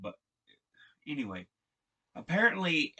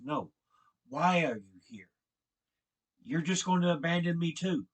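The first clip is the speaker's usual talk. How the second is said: louder, pushing back hard; angry demand; 5 semitones higher, 5 dB louder than usual. Retold or imitated. Ellie confronting Joe in the argument, angry and louder. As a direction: demand an answer and accuse him.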